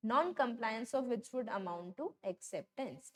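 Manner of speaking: very slow, word by word, like reading a law to copy down; slow dictation. Shown as a demonstration. Teacher dictating the contract rule to students, very slow and deliberate. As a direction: spell out each word of the rule. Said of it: "continues dictating rule".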